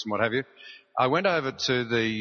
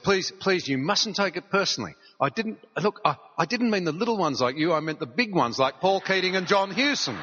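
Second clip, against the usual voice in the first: blurted out; 5 semitones higher than usual. Retold or imitated. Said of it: "she blurted out".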